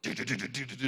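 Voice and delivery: rattled-off stuttering syllables; repeated juddering "do" sounds; imitated shaking. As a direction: act out a body shaking all over. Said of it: "They just go, like".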